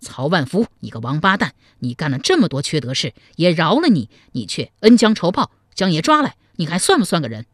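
restrained narrated rage, building partway through; indignant tirade that rises then eases; explosive angry shout. Acted. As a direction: curse out your captor, gaining force. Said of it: "抖得暴喝一声".

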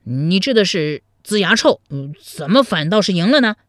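mildly indignant, pressing question; a touch of angry protest; angry demand. Acted. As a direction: call out the cheat with mild heat. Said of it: "怒气冲冲地问道".

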